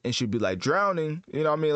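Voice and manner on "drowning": "Drowning" punched high as the final word; super emphasized last word. Shown as a demonstration. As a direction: hit "Drowning" hard and high. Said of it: "the last word would be super emphasized".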